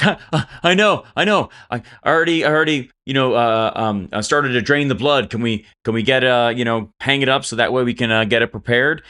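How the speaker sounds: lightly acted flustered eagerness; excited Jed. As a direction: stumble over the words with mild excitement. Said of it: "so excited".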